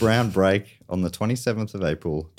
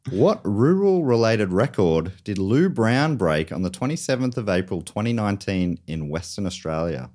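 announcer read. Acted. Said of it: "You have a lovely, uh, timbre to your voice".

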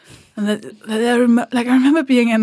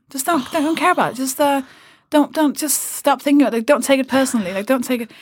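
higher, breezy brush-off; mock dismissive guy; 3 semitones higher than usual. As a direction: wave it away lightly, a touch higher. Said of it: "he was like".

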